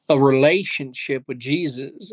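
relationship given a light lean, ending on a small rise; stress on relationship. Real, not acted. Guest telling the host about faith, stressing relationship. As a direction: lean gently on the word relationship. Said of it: "I stress the word relationship".

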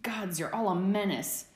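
a lightly muffled mock complaint; boy under the duvet shouting at friends. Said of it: "Remus's muffled voice shouted".

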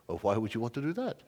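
lightly imitated Indian accent; a hint of an Indian accent, gently questioning; little Indian accent. Missionary leader questioning an eager pastor, little Indian accent. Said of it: "in his little Indian voice".

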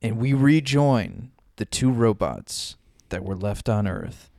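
dramatic voiceover, slow at end; movie trailer narrator. Acted. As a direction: announce the epic tale.

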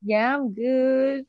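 playful, drawn-out Southern American reply; Southern American accent. Pretend. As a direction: stretch it out in a put-on Texan accent. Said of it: "I don't know what that accent was".

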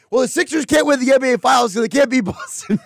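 high, whiny-style send-up of a co-host; mock Billy. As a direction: tease the co-host by parroting the complaint in a high voice. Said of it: "Billy's gonna be like".

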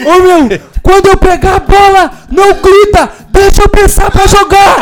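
high, drawn-out indignant mock yelling; mimicked angry yelling. Kid telling teammate not to shout, mimicked irritated yelling. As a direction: scold at a high pitch, stretching the phrases. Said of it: "maninho deu um berro aqui".

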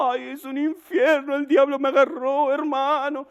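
high, hammed-up wailing believer; lloriqueo fingido. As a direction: moan as a mock crybaby Christian. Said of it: "Viven llorando". (imitando un lamento llorón, voz aguda)

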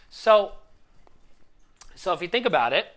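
getting carried away with emotion; worked up. Real, not acted. Coach telling the viewers a client's story, worked up. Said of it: "sorry, I'm getting worked up".

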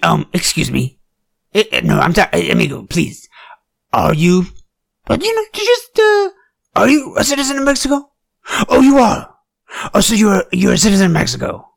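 high, loud, fast hammed-up questioning; mock interrogator. Comic plays a hammed-up agent questioning an immigrant, loud and high. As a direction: play a hysterical border cop grilling someone. Acts out confronting a Mexican.

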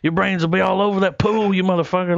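mock angry threat, pitched high; retold threat. Co-star threatening the man who fluffs his lines, mock angry.

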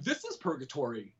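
soft mock realisation; hushed dread. Looking at strangers and cows, hushed mock dread. Reliving dawning horror at the scene.

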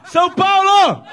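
grito de torcida. Real, not acted. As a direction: shout the team name to the stands. Refaz o chamado com ênfase. (grito enfático puxando a torcida)

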